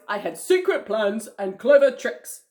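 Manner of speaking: loud, scheming crocodile character. Acted. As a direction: voice a storybook crocodile with a plot. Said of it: "oops, wrong voice".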